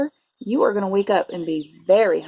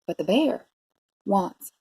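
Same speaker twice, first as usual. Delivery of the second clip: story narration. A narrator's reading. Teacher reading a bear story to preschoolers, expressive narration. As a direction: savour the rhymes for young listeners. Reads picture book to children.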